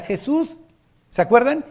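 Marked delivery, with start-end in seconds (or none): 0.0-0.6 high, calling cry of a blind beggar. Retold or imitated. Blind beggar calling Jesus over the passing crowd, high and pleading. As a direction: call out his name across the crowd. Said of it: "le grita".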